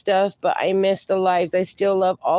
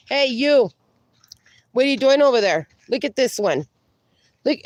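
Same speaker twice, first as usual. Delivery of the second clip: higher, sing-song voice to a dog; pet talk; 3 semitones higher than usual. Real, not acted. Owner teasing her dog in sing-song pet talk. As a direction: coo at the dog playfully.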